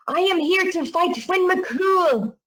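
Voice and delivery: high, slow giant's challenge; mock roar. Scottish giant at the door to fight Finn McCool, mock roaring. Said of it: "And he roars".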